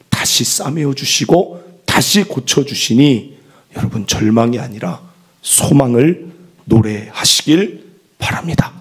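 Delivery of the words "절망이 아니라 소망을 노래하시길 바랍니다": ordinary delivery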